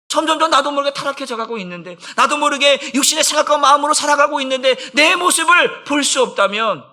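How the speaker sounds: urgent, rising preacher's cry; impassioned preaching. Real, not acted. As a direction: build to a high, fervent pitch. Preacher at full force. (격정적으로 고조되는 설교)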